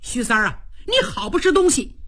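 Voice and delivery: Cheng Yaojin's indignant tirade, pitched high; a hot-tempered general blasts the adviser who fired him; heated outburst. Acted. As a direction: blurt out your grievance, fast and hot. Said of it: "程咬金一看就急了".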